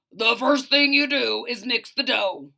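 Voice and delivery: bossy baker. Acted. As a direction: instruct firmly.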